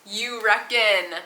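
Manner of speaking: slow imitation of "You reckon?" with an Aussie twang; copying "You reckon?" in a light Australian accent; mock Australian. Shown as a demonstration. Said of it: "Marcus is over there cringing".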